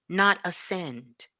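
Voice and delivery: ordinary talk, nothing marked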